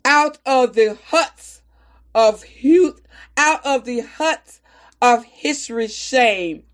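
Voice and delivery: slow, deliberate poem reading with defiant pride; poem recitation. Acted. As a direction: recite it proudly, letting lines land.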